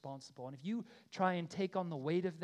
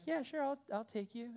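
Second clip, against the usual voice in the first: higher-pitched, lightly acted eager agreement; mock obliging; 7 semitones higher than usual. Preacher imagining offering the man a ride, mock obliging. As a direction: lightly play someone readily saying yes. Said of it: "the loving thing would have been like".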